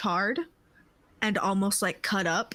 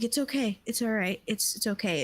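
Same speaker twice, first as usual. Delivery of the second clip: comforting; faster than usual. Acted. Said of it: "comfort her".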